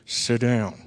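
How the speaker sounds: low, quiet paternal order; stern dad. Retold or imitated. Dad refuses to let son go, quietly stern. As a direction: imitate Dad shutting down argument. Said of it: "He said".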